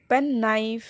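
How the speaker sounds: পেন নাইফ slowly, both words equally weighted; equal stress. Shown as a demonstration. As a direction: give পেন and নাইফ the same beat. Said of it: "একটার চেয়ে আরেকটা কম stress হয় নাই".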